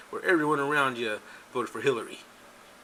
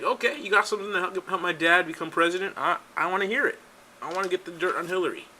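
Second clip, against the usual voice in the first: higher-pitched keen acceptance; eager son, imitated; 5 semitones higher than usual. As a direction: play a son keen to hear the gossip. Acting out Don Junior's eager reply.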